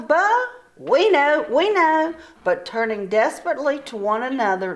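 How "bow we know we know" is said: high, rushed insistence; flustered bluffing. Acted. Sisters faking an answer to the sister, flustered. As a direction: bluff nervously.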